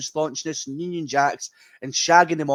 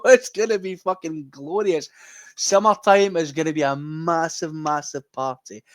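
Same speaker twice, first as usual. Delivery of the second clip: excited gloat; 2 semitones higher than usual. Real, not acted. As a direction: burst out with glee, laughing. Gloating over rival club's collapse.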